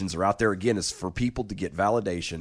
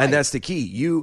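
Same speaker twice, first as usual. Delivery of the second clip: choking on spit mid-sentence; words catching on spit; swallowed wrong way; 6 semitones higher, 4 dB louder than usual. Real, not acted. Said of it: "I'm dying".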